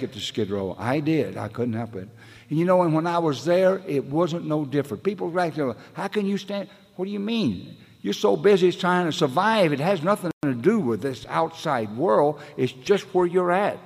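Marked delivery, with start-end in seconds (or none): 2.5-13.8 high excited telling. Real, not acted. Speaker recalling Skid Row days, voice high and lively. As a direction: pitch it high and lively, building. Raised pitch telling street life.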